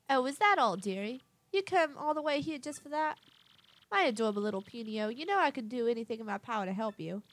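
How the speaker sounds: lightly voiced genteel lady, doting; fussy fond madam. Madam Flurry greeting little Punio, lightly voiced doting madam. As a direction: put on a touch of a grand madam.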